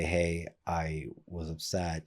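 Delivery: put-on tender apology to a child; gentle repair. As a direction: say sorry tenderly, unhurried. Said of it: "to say".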